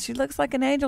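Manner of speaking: high, childlike retold voice; little daughter. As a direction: lightly imitate an awed small girl. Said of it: "She says".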